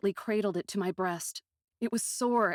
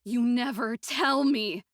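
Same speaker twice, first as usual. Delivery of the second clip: loud slow frightened cry, higher; raised, frightened; 4 semitones higher, 7 dB louder than usual. Acted. Aiko crying out at Tango, frightened and hurt. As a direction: cry it out, tight with pain. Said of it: "My voice was a raised, frightened thing".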